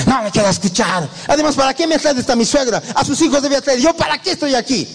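a hint of a trapped demon begging to leave; lightly voiced demon wanting out; demon voice retold. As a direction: pitch climbing high, pleading to escape. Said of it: "El diablo quería escaparse".

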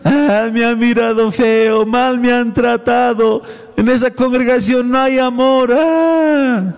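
mock a hurt churchgoer; mock whining Christian. Pastor mocking a hurt churchgoer, slow whine. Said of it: "Así hay muchos cristianos".

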